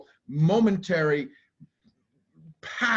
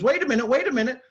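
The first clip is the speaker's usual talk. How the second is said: mock alarmed brain; 8 semitones higher, 4 dB louder, much faster than usual. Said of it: "the brain then says".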